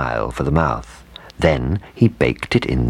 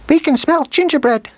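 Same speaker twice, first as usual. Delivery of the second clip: put-on very high, loud baby-mouse squeak; little mice chorus; 4 dB louder than usual. A narrator's reading. Young field mice catching the scent, high excited piping. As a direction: pipe up high like tiny mice. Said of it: "chorused the whole family of little ones".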